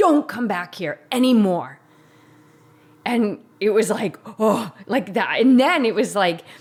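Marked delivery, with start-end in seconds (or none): 0.0-1.8 sudden, loud, full-on shouted yell. Retelling how Bob yelled at him during a conversation: imitating Bob yelling. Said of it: "And he just yelled at me".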